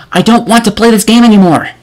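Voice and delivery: loud, high whiny protest; fed-up outburst. Real, not acted. Reviewer done with the game, yelling in disgust. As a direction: throw up your hands and yell it.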